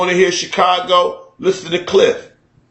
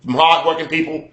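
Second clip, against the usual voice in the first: white Chicago accent, imitated; Dan Aykroyd. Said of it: "white people in Chicago talk".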